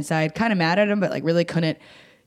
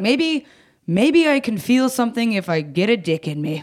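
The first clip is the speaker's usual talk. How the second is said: mock hopeful; 4 semitones higher than usual. Voicing her own desperate thought.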